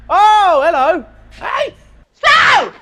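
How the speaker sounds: loud, high call across the yard; shouting out. Real, not acted. Owner calling across the scrapyard to Lee, loud high shout. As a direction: yell to grab his attention.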